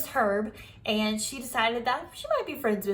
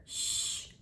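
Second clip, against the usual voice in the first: shushing; 10 dB quieter than usual. Acted. Junie shushing May.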